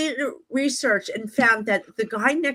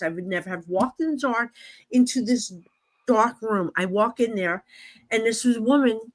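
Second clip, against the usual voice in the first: normal talking voice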